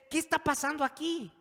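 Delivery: high, loud, urgent question; exasperated outcry. Acted. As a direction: cry it out at the end of your patience.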